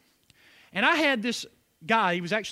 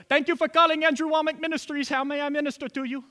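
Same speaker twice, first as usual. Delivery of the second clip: polite phone greeting; 6 semitones higher, faster than usual. Retold or imitated. Jerry answering the prayer line.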